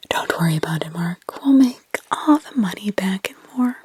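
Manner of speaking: a touch of gentle reassurance; soft inviting. Acted. Wife Penny reassuring stressed Mark, soft inviting whisper. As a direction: soothe him, inviting. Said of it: "Her voice was so soft, so inviting".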